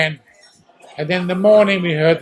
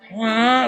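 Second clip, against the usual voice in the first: harsh siren imitation; 3 semitones higher than usual. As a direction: bark out the warning siren. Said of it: "It wasn't so".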